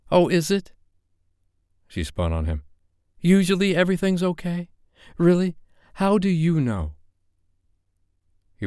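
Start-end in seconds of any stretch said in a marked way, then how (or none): 0.1-0.7 Sophie, bitter. Acted. Sophie retorts sharply to Dave. 3.2-6.9 Sophie, sharp challenge. Acted. Sophie challenges Dave angrily.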